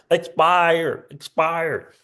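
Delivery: a light, mock Jersey accent, each word dropped to a fall; a hint of a Jersey accent, each word falling. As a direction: lightly imitate the Jersey lady from the commercial. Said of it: "In that Jersey accent".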